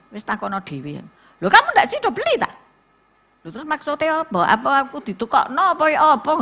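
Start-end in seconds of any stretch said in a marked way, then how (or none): 1.4-6.4 higher, startled indignant questions; mock disbelief at the caller; indignant surprise. Acted quarrel over burial plot.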